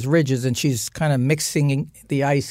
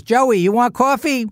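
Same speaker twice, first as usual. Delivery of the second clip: higher, sudden sweet offer; as if nothing happened; sweet mother; 7 semitones higher, 3 dB louder than usual. Retold or imitated. Mother calling to Joe at the door, suddenly sweet. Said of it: "She goes".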